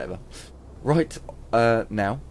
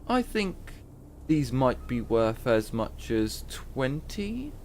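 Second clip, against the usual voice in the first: lightly voiced haggling herbalist, raised pitch; a canny trader pricing her mushrooms, lightly done; a hint of a shrewd old herbalist; herbalist woman; 4 semitones higher than usual.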